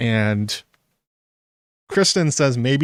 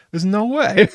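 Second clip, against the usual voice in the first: emphatic; 8 semitones higher, 4 dB louder than usual. Real, not acted.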